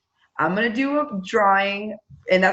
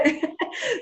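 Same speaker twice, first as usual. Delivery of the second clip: high burst of laughter; 12 semitones higher, 3 dB quieter than usual. Real, not acted. Laughing at teachers' reaction.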